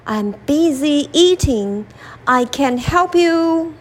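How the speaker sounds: an animal shrugging off the lion; lightly voiced animal brushing off the lion; busy animal. Animal too busy to help.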